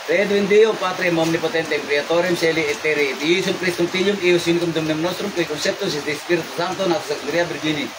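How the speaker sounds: steady rapid liturgical recitation; Latin prayer recitation. Real, not acted. Healer praying over the possessed woman, steady recitation. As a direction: rattle off the Latin prayers evenly.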